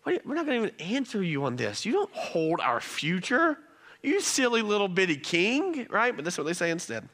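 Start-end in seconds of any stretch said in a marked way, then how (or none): 0.0-5.9 taunting, dismissive paraphrase; the three young men taunting the king, mild mock defiance; mock defiant taunt. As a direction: scoff at the king, lightly. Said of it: "he's saying".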